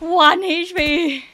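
loud, high, drawn-out cry; excited. Real, not acted. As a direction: stretch it out in alarm. Streamer reacts to low health.

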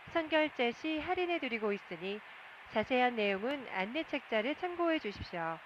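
loud cabin announcement over speakers. Real, not acted. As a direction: broadcast through the aircraft PA. Cabin PA duty-free announcement.

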